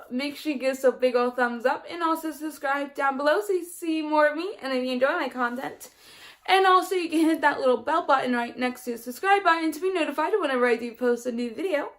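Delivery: rapid-fire vlog outro; talking too fast. Real, not acted. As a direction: rattle through the subscribe reminders. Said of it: "I'm talking way too fast now".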